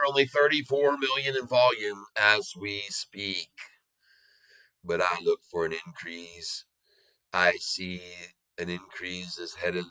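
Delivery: mild put-on Southern country voice; a light country Southern accent; country western accent. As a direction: talk like a folksy down-south chart man. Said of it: "on my country western accent".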